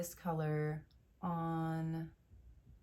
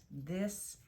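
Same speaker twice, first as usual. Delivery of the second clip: whisper; 3 semitones higher than usual. Real, not acted. Breathy hush presenting the palette.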